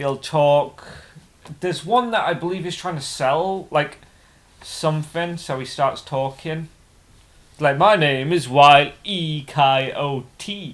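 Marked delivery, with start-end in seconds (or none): 7.8-10.7 clumsy, very drawn-out put-on British accent. Describing a British man pretending to be someone else, the speaker tries a bad British accent. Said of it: "I'm not very good at the British accent".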